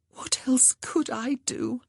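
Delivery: slow, desperate whisper. Acted. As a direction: plead in a hushed voice. Beseeching, despairing sister.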